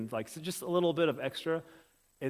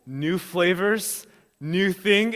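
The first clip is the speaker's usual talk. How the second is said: delighted; 4 semitones higher, 6 dB louder, much slower than usual. Retold or imitated. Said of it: "She's like".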